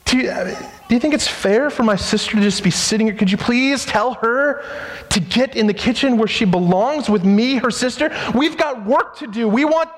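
lightly voiced flustered sister pleading; mild mock whine about her sister; busy Martha complaining. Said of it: "Her saying to Jesus".

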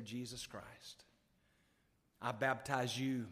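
measured, lowering formal declaration with pauses; solemn baptism pronouncement. Retold or imitated. Preacher baptizes his own daddy, solemn pronouncement.

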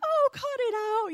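high, dismissive retort; disbelieving mom. Retold or imitated. Mom not believing the pastor, dismissive. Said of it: "And my mom's like".

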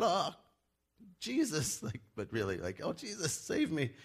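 high pleading call; hammed-up sinking Peter begging; mock cry for help.

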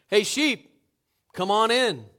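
easy, moderately loud call. Acted. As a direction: call the sheep with only a little lift. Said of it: "Raising his voice only slightly".

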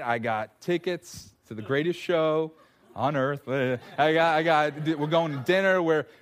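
mock thrilled husband announcing a date night; playfully gushing to his wife about the doll date; excited husband. Husband telling wife about his date, mock thrilled.

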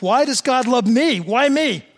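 wondering plea. Retold or imitated. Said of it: "I've asked myself".

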